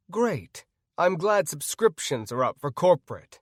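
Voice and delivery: dry sarcastic praise. Acted. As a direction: say it with a sneer of mock praise. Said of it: "I said sarcastically".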